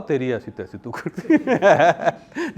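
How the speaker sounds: very slow, playful fake telling-off through laughter; laughing mock scold. (हँसते हुए नकली डाँट, बहुत धीरे)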